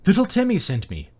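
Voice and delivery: a mild, high-pitched yell; yelling back. A narrator's reading. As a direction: call the answer across a distance. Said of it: "the farmer yelled back".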